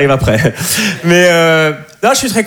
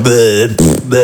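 annoyed ugh; 5 semitones lower than usual. Retold or imitated. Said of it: "Vous parlez comme ça".

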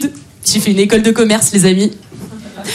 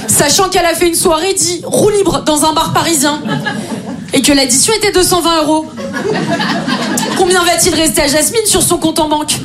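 higher-pitched, measured reading aloud; lightly voiced problem-setter, higher pitch; mock maths problem; 5 semitones higher than usual. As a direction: read it out like a school exercise. Reads out a mock school maths problem.

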